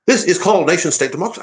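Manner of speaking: a high, put-on Nigel Farage voice; a hammed-up Farage, pitched well up; Farage impression. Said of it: "let me".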